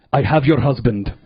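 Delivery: slow, loud kidnapper voice; menacing kidnapper. Retold or imitated. Kidnapper calling the wife, slow and loud. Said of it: "he goes".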